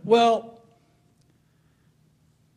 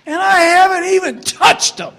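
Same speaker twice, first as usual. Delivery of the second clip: high, loud laughing cry of disbelief; 13 semitones higher, 12 dB louder than usual. Real, not acted. Father laughing about his wailing kid before the paddle lands, high and loud. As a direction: laugh it out, incredulous.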